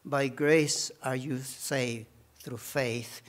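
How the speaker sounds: ordinary talk, nothing marked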